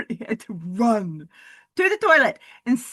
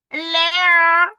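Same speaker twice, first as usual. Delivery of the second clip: a sing-song hello pitched up; playful high greeting; high silly hello; 7 semitones higher, 7 dB louder than usual. Pretend. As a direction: greet them in a put-on higher voice. Greeting the listeners in voices.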